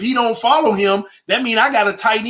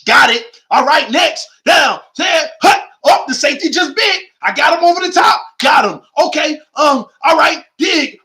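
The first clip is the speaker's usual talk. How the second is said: mock Brady play-call; 3 semitones higher than usual. Acting out Brady calling plays.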